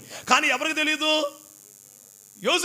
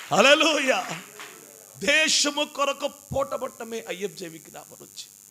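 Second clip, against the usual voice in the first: usual speaking voice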